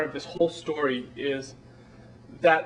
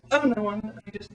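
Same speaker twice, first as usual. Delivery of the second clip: lightly voiced dinner guest, a little higher; voiced action figure; 3 semitones higher than usual. Playing with action figures at dinner, lightly put-on modest voice. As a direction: play the modest friend in small talk. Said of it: "where the guys are talking to each other and they're like".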